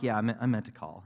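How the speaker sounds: casual, offhand son on the phone; feigned nonchalance. Retold or imitated. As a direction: play it cool, as if it's no big deal. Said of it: "trying to be all nonchalant".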